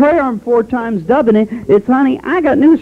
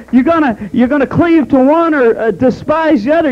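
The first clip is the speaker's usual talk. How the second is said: pitched-up, deliberate scripture preaching; emphatic preaching; 4 semitones higher than usual. Real, not acted. Preacher warning the congregation about loving money, emphatic. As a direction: press each warning home firmly.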